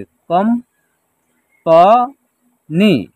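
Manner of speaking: "कम, प, नी" in separate pieces; syllable-by-syllable breakdown. Shown as a demonstration. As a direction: pause between each part of "कम, प, नी". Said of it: "इसका उच्चारण होगा कंपनी".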